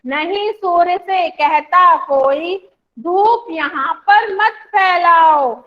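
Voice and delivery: slow, sing-song poem reading; teacher leading a class poem reading; poem recitation. Shown as a demonstration. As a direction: recite slowly so the class can follow. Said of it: "एक बार फिर से इसकी reading कर लेते हैं".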